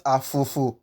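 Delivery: afofo with ordinary letter F sounds; afofo, f as in physics; wrong English f. Shown as a demonstration. Teacher repeating the mistake, English f. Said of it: "as the letter F".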